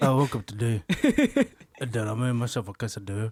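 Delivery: speaking with mouth barely moving. Friends take turns doing impressions of Alex; the speaker imitates Alex. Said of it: "Your mouth is barely moving".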